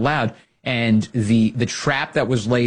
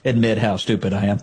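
mock show-off. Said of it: "He's like".

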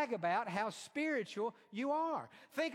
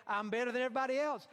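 mocking a proud man, faster; high and mighty; 4 semitones higher, much faster than usual. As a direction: sneer out a smug boast. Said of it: "The other part is high and mighty".

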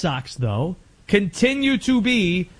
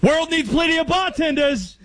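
Alec Baldwin's character; 10 semitones higher than usual. Acted. Host quoting The Departed, high movie-character impression. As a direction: do the film character's outburst, high-pitched. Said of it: "sounding like Alec Baldwin's character".

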